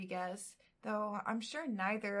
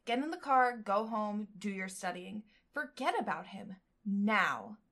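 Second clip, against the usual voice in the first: scolding subconscious; 4 dB louder than usual. Acted. The subconscious scolding the heroine, loud and bossy. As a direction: nag yourself like an impatient inner critic. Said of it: "My subconscious is metaphorically screaming at me".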